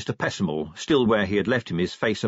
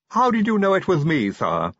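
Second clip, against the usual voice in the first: high-pitched lisping servant; lisping henchman; 8 semitones higher, 4 dB louder than usual. A narrator's reading. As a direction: ask it with a thick lisp. Igor voiced with a lisp.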